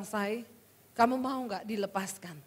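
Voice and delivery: soft, low coaxing question; gentle husband, retold. Husband offers his wife release, gently coaxing. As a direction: quote a husband asking tenderly.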